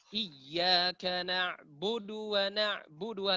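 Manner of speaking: "na'budu wa" with du going straight into wa; direct short du. Shown as a demonstration. Teacher shows how it should go, short du. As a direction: chant "Iyyaka" drawn out, keep "budu" short. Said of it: "Langsung masuk, cepat".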